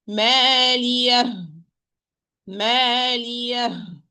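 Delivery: long-vowelled "مالية" closed with h; ha at the stop. Shown as a demonstration. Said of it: "replacing it by an alif".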